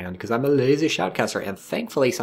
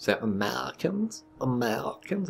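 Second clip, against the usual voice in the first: softer mock German accent, questioning lift; 4 semitones higher, 4 dB quieter than usual. Shown as a demonstration. Shoutcaster retrying the team name, in a mock German accent. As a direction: try the word out in a German accent. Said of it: "in a German accent".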